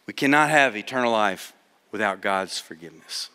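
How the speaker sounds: hushed, halting nervous reading; a timid first-timer stumbling through; quiet and hesitant, low and soft. Retold or imitated. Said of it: "She was really nervous".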